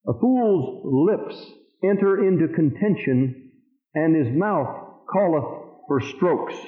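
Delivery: very slow, spaced-out verse reading; scripture reading. Real, not acted. Preacher reading Proverbs eighteen six to the congregation, slow and deliberate. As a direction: read each phrase slowly with weighty pauses.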